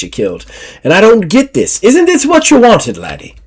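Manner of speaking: a frustrated Scottish lass telling the lad off; exasperated Scottish. Acted. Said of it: "And Deirdre goes".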